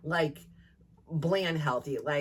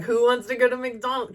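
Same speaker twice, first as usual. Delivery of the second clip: excited call; 5 semitones higher, 5 dB louder than usual. Retold or imitated. Texting family, excited.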